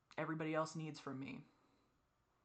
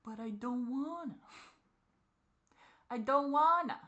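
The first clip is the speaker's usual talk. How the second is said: plaintive, higher-pitched refusal; 6 semitones higher, 5 dB louder than usual. Real, not acted. Childlike protest at growing up.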